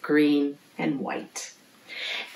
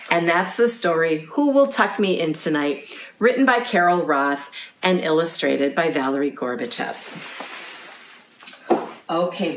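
ordinary delivery, nothing marked

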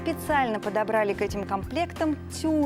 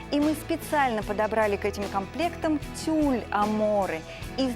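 infomercial. Acted. TV shopping ad read.

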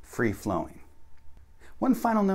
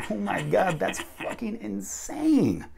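high, drawn-out "insane"; acted amazement; 9 semitones higher, slower than usual. Shown as a demonstration. Teacher acts an example sentence, amazed disbelief. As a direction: stretch it high, blown away.

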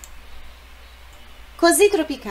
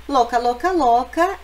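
louca, louca, louca, rising louder each time; excited exclamation; 2 semitones higher, 5 dB louder than usual. Acted. Exclaims about the song's woman. (exclamação animada, cada vez mais alta)

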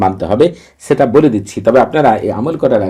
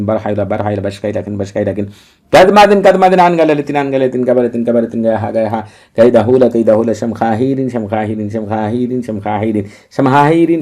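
incantation recital. Shown as a demonstration. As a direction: recite like a litany, letting each breath fall away. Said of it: "আমি আপনাদেরকে পাঠ করে শোনাচ্ছি".

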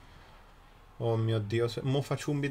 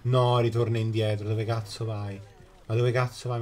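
loud frustrated yell; emphatic italian speech; 4 dB louder than usual. Real, not acted. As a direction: shout at the screen in frustration. Yelling at game unit.

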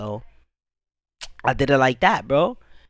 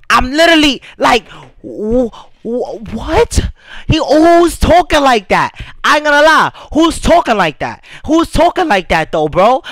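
exasperated rant; 3 semitones higher, 3 dB louder than usual. Real, not acted. Rapper ranting at fans who hate the beat, incredulous and loud. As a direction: fire it back at the critics in disbelief.

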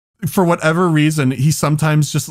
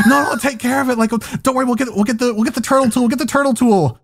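higher-pitched imitation of a fussing mom; friend's mom reassuring; 6 semitones higher, faster than usual. Mom to screaming boys about loose turtle, high-pitched reassurance. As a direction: play a mom hurriedly taking charge. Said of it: "And so she's like".

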